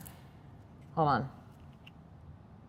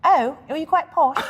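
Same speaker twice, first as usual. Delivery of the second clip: higher-pitched mock-posh British accent; playful British accent, pitched up; 6 semitones higher, 4 dB louder than usual. Shown as a demonstration. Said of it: "Show me your British accent".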